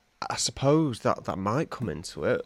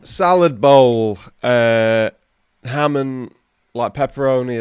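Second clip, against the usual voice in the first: mimicking server; 9 dB louder, slower than usual. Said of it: "He goes".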